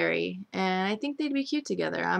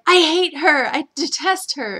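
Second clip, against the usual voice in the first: higher, louder mock protest; 8 semitones higher, 7 dB louder than usual. EJ claiming he hates Sammy, mocked high. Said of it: "E J's like".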